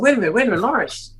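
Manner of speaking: high, rushed mock alarm; retold panic. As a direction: replay the moment you realise you're lost. Retold panic at getting lost.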